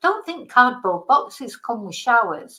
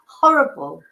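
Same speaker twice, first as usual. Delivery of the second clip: emphatic loud; 4 semitones lower, 7 dB louder than usual. Real, not acted. Repeated insult, loud.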